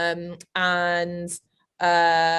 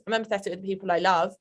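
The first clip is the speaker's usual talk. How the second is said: ordinary talk, nothing marked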